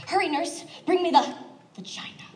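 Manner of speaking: lightly acted urgent order to a nurse; urgent doctor. Acts out urgent call to nurse.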